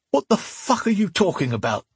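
high, strained thug voice; pained, angry disbelief; through gritted teeth. A narrator's reading. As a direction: force it out through clenched teeth. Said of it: "he asked through gritted teeth".

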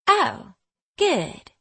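high, relieved Southern voice; cheered up. A narrator's reading. Girl takes comfort from the reassurance, cheered and high. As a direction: brighten with relief. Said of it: "She sounds cheered up by this".

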